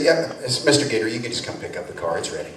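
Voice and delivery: low, soft Southern drawl; a hushed Southern supervisor; Southern supervisor closing the matter. Retold or imitated. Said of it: "slipped into a little Southern drawl".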